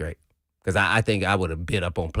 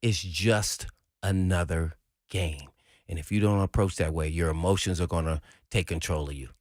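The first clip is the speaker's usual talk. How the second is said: retold calming coach; 5 semitones lower than usual. Coach steadying a fired-up player, mock calming talk. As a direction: imitate a coach talking a player down.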